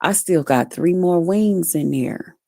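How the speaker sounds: just woke up and remembered the leftovers; groggy realization. Retold or imitated. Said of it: "I was like".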